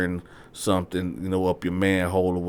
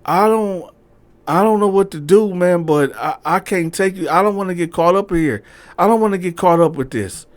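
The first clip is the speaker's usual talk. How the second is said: much higher, louder, nervous refusal; anxious girlfriend; 9 semitones higher, 6 dB louder than usual. Retold or imitated. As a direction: back away from trouble. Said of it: "She was like".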